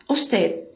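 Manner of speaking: "usted" with the final d dropped, trailing off soft. Shown as a demonstration. Teacher showing students "usted" without the final d. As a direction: say "usted" as "uste", no d at the end. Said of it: "Ou posso não falar".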